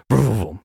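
rolling vroom of a runner; imitated zooming noise. Storyteller mimics boy racing off, playful vroom noise. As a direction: zoom past like a little racer. Imitates child running fast.

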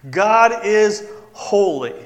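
slow emphatic repeat; emphatic declaration. Pretend. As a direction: declare it with weight. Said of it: "Isaiah would have used that word".

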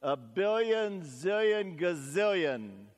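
put-on mild child voice, drawn out; little girl voice. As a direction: stretch it out like a child reaching for the biggest number. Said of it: "this little girl says".

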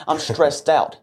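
mock whiny kid breaking into a laugh; laughing imitation of a stressed kid. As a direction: imitate a child's complaint and laugh at it. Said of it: "kids saying they have anxiety".

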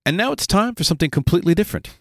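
high, brisk announcer line; Monty Python announcer. Pretend. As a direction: announce it like a comedy sketch host. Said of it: "you know I love a good Monty Python reference".

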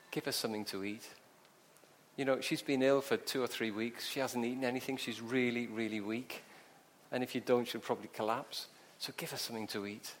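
soft, low, gentle aside; compassionate instruction. Acted. Jesus to the girl's parents, gently caring. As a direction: advise them kindly and quietly.

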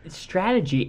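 high disbelieving question; incredulous. Real, not acted. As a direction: ask it in disbelief. Incredulous about game.

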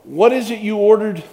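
a surprised clerk popping up behind. Retold or imitated. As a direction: clerk suddenly standing right behind him. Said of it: "I hear a voice behind me saying".

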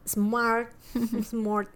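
a laugh breaks into the name. Real, not acted. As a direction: laugh it out after stumbling. Stumbling over the name. (riendo al decir el nombre)

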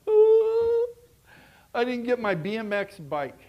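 laughing, slow and loud. Real, not acted. Preacher laughing about his childhood tantrum. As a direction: laugh through the memory of the missing bike.

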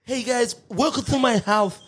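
light host voice; mock YouTuber greeting; imitating Chris. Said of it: "This is Chris".

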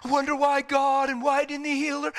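acted plaintive questioning, held on one note; mock sentimental wail, drawn along evenly; sentimental lament. Preacher imitating himself doubting after his mother died, sentimental lament. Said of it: "unless I get sentimental".

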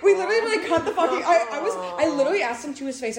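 high, loud telling through laughter; laughing disbelief. Real, not acted. Friend recounting confronting a strange bartender, laughing high and incredulous. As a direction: stumble over the words, laughing in disbelief.

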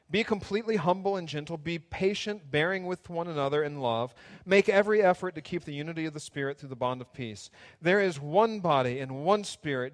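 lightly formal reading of Ephesians; scripture reading. Acted. Pastor reading Ephesians to congregation, steady reading. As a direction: read it out steadily.

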